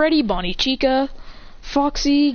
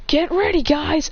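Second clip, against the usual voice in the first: rallying call; 6 semitones higher than usual. Acted. The speaker voiced rallying fighters.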